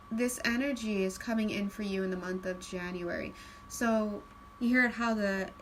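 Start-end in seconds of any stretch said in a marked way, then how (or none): 0.1-3.3 calm. Shown as a demonstration. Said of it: "my intonation got very calm".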